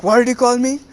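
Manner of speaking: indignant retort. Retold or imitated. Neji reacts to being called a fraud, mock indignant. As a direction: act out an offended comeback, voice jumping up.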